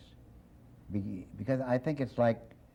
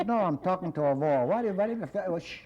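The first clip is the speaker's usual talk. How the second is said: sarcastic peddler, pitched higher; mock-exasperated peddler; 8 semitones higher than usual. Peddler sarcastically answers a customer who asks the obvious. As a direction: snap back at the customer with mock scorn. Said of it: "He says".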